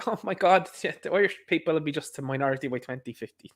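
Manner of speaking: mock the gloating with a laugh; mock gleeful. Media pundits relaying population news, mock gleeful. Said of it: "They're gleefully saying this in the media".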